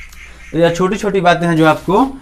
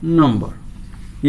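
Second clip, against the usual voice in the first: slow dictation; 3 semitones lower, 5 dB quieter, much slower than usual. Shown as a demonstration. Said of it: "इसको हम लोग क्या बोलते हैं?".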